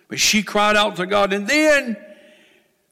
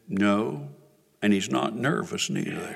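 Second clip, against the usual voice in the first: dry retort; 10 semitones lower, 6 dB quieter than usual. Retold or imitated. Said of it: "And he said".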